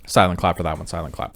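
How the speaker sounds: soft hushed whisper. Real, not acted. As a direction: whisper so nobody wakes. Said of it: "I have to whisper".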